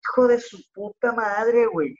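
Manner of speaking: slow, drawn-out curse of dismay at no paper; frustrated curse. Retold or imitated. Stuck in the stall, cursing the empty roll, drawn out. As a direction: let the swear drag out in disbelief.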